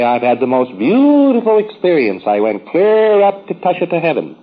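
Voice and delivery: mock rapture, pitch swooping up on the wonders; imitated gushing. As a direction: gush like someone retelling a heavenly experience, drawing out words. Retelling a preclear's gushing report.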